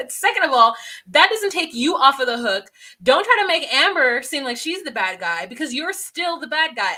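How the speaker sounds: imitating a sassy retort to her man. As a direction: tell him off with attitude, laughing. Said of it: "then Puppy goes".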